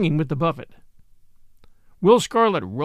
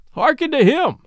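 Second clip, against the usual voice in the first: high, loud cry of glee; exclaiming; 8 semitones higher, 5 dB louder than usual. A narrator's reading. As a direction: call out gleefully. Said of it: "quoth Friar Tuck".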